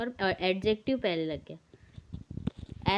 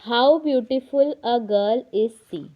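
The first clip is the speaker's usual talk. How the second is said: slow and louder, an exclamation; exclaiming; 6 dB louder, much slower than usual. Shown as a demonstration. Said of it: "exclamatory sentence है". (विस्मय से, धीरे और ज़ोर से)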